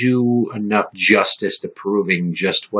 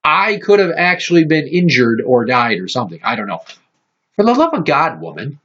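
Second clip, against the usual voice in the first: exasperated rant; 7 semitones higher than usual. Real, not acted. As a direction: rail against her, voice climbing. Ranting at mom's reaction.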